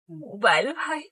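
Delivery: softly sweet calling of his name; a touch of tenderness; sweetly, on request. Acted. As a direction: indulge him with a gentle call. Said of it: "আবার একটু ডাকো না".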